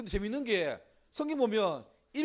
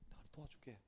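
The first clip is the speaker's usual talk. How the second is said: 아주 작고 낮은 주님 목소리; 우는 이에게 속삭이듯 나직이; 나직한 응답; 6 semitones lower, 21 dB quieter than usual. Acted. 우는 이에게 주님이 응답. (조용히 도움을 약속하듯)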